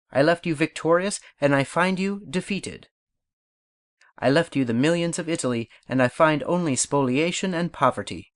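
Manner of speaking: rising, reproachful declamation with hits on left and find; formal oratory. Shown as a demonstration. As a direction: rebuke the Directory like an orator. Napoleon address as speaking exercise.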